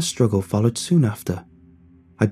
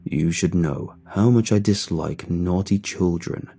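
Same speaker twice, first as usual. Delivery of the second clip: low, drawn-out monster of a man; deep, slow voice; 4 semitones lower, slower than usual. A narrator's reading. Huge decrepit man scolding a naughty boy, deep and slow. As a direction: drop the pitch and stretch each menacing phrase. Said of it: "A deep voice spoke slowly".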